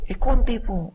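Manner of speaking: high, sheepish little admission; sheepish wife. Acted. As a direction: mumble it sheepishly, playing innocent. Wife admits answering back.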